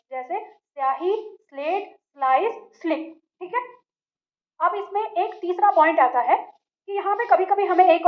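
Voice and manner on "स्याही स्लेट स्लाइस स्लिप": स्याही, स्लेट, स्लाइस, स्लिप said slowly, with a soft, light स and no full vowel before it; light s demo. Shown as a demonstration. Teacher models स्याही, स्लेट for students, slow and soft. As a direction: glide straight from स into the next sound. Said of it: "स की ध्वनि स ही उत्पन्न होती है".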